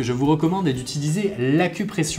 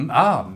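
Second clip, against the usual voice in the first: éternuement. Real, not acted. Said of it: "à vos souhaits".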